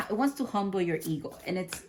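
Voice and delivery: fast words through laughter; can't hold back a giggle; laughing. Real, not acted. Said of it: "I'm finding that funny".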